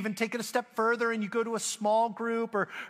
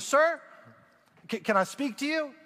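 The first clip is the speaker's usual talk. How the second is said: higher-pitched, hesitant approach; lightly voiced worker; 5 semitones higher than usual. Pool worker to homeowner five minutes into digging, hesitant. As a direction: lightly imitate a worker asking for a word. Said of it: "the guy comes and says".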